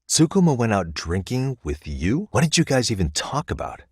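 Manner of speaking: startled, quizzing the other; surprised. Real, not acted. Surprised to hear of drinking.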